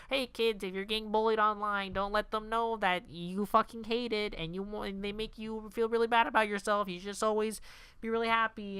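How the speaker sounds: hammed-up public-service cheer; preachy parody. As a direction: talk down to kids in mock earnest. Parodying movie preaching to kids.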